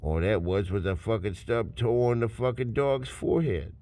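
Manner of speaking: low, soft, easygoing voice; laid-back shrug. Retold or imitated. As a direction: brush it off like it's nothing. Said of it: "then you're like".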